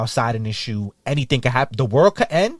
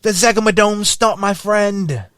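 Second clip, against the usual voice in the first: mock panic; 10 semitones higher, 5 dB louder than usual. Joking that the shoe name sounds like a dinosaur, mock terrified. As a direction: scream like fleeing a dinosaur in Jurassic Park.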